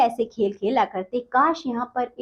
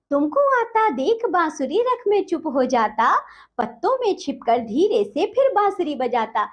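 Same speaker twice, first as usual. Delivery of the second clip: poem recitation; 3 semitones higher than usual. Acted. Teacher recites poem stanza.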